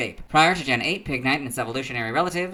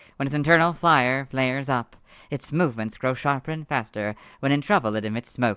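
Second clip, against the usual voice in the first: smooth male narrator voice. Reading Pokémon entries aloud in a smooth male Pokédex voice. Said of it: "It is a much smoother male voice".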